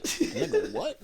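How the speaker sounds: falsete susurrado incrédulo; mock disbelief. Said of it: "Yeah, I was like".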